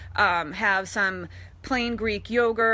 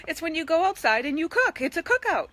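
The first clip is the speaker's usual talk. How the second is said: amused; 7 semitones higher than usual. Real, not acted. Explaining the obvious, amused.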